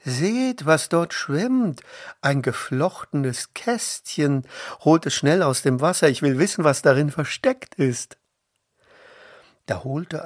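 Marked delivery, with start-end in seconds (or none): 0.0-8.2 higher and louder, urgent; excited call. A narrator's reading. Princess urging servants to fetch the basket, excited. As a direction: call them to fetch it fast. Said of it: "rief sie".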